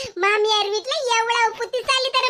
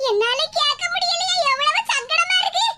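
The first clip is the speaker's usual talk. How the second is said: distressed; 4 semitones higher than usual. Acted. Mother distressed by daughter's apparent crying.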